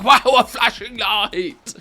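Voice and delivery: loud, drawn-out amazed gasp; overacted wide-eyed zoomer wonder; zoomer impression. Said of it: "that was my zoomer impression".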